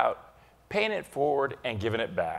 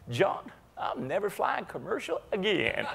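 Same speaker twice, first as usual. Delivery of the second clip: laughing; 4 semitones higher than usual. Retold or imitated. Punchline laughing.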